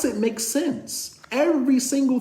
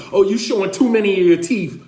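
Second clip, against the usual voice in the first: wife complaining; 5 dB louder, faster than usual. Retold or imitated. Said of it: "My wife is like".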